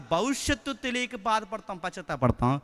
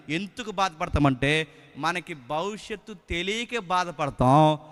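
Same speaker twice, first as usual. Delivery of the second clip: slow, measured sermon line at normal level; slow and even, no push on తెలియక; slow first statement; slower than usual. Shown as a demonstration. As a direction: lay it out slowly the first time. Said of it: "దాన్ని మళ్ళీ చెప్తున్నాను".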